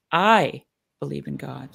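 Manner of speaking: "I" leaned on and set apart, the rest low; heavy emphasis on the first word, "I"; stress on I. Shown as a demonstration. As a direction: punch the word "I", then pause. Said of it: "you put the emphasis on, differently on each word".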